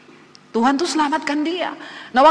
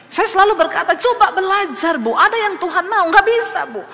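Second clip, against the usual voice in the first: loud, raised preaching voice; emphatic preaching; 6 semitones higher, 4 dB louder than usual. Real, not acted. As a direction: drive it home to the congregation. Preaches at full force. (berkhotbah lantang dan berapi-api)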